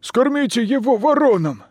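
high angry yell; yelling from the crowd. A narrator's reading. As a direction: roar it out from the crowd. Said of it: "заорал один".

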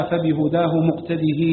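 final ه of مقتده voiced as a long "hee"; kasra with long ya. Shown as a demonstration. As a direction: slowly end مقتده on a stretched "-dihee". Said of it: "بكسر الهاء وصلتها بياء". (مقتده بكسر الهاء وصلتها بياء)

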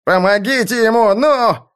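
high, urgent cry for help; desperate plea. A narrator's reading. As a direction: beg them frantically to do something. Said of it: "Мартин в отчаянии упал на колени".

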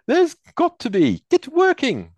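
high, loud command; barked order. Acted. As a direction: order them to work. Warden orders them.

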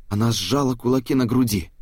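plain reading voice

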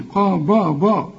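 قاب drawn out with a dark, thick "bo"; wrong heavy ba. Shown as a demonstration. Teacher isolates the mistake for the student, با wrongly thickened. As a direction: dwell on the faulty heavy با. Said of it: "وبرضو الباء ما تقولش".

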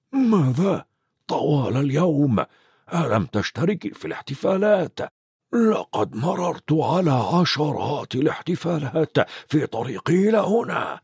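mild amazement at her long day; surprised Dumbledore. Acted. Dumbledore is surprised she missed the celebrations, mildly astonished.

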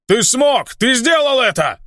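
высоко и восторженно, почти вскрик; ликует, не веря счастью; ликование. Acted. Ханк ликует, увидев друга. (друг восторженно кричит Алексу, что он смог)

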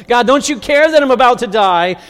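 whining to God. Retold or imitated. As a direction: plead like you're going under. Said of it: "talk to God like that".

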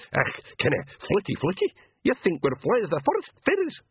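high, scornful little man; tiny creature mocking in disbelief; sneering pixie. A narrator's reading. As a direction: sneer it in a squeaky dialect voice. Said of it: "sneered a blue man".

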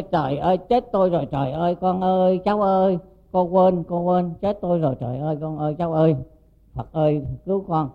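keen like a grieving aunt who forgot her niece; retold wailing lament. Aunt realising she forgot the dead child, retold anguished wail. Woman wails after hitting head on floor.

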